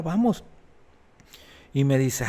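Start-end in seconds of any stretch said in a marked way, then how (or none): 0.0-0.4 eager yes. Retold or imitated. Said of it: "Y ella se extrañó de que le dijera".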